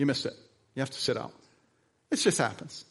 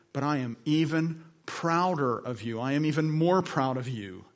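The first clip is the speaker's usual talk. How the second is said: put-on slow, gentle reassurance to a boy; slow down and comfort the kid; tender encouragement; 2 semitones lower, slower than usual. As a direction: pastor telling the boy he's proud. Pastor comforts crying boy.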